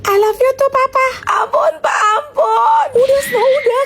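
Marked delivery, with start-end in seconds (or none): 1.3-3.8 high wailing mock sob, pleading; child begging between fake sobs; fake crying plea. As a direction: ham up the crying so mom hears. Pretend crying for the father's mock punishment.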